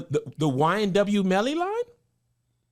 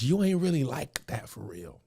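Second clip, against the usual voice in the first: quoted line; 7 semitones lower, 5 dB quieter than usual. Retold or imitated. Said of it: "The most dangerous thing he said was".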